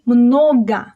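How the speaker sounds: "много" as mnoga, full first O then A; reduced final O. Shown as a demonstration. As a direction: stress the O, end "много" on A. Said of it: "it's reduced and pronounced as A".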